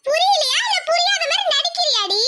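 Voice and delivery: mocking anger. Rival taunts the girl angrily.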